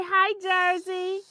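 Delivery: high, slow sing-song hello; high slow cooing hello to a dog; baby talk. Pretend. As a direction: coo the greeting for the child. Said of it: "They say".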